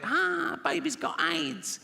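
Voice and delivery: high, slow, hammed-up wail of the line; high mock wail. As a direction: wail it like a bad TV actor. Acting the TV skit line.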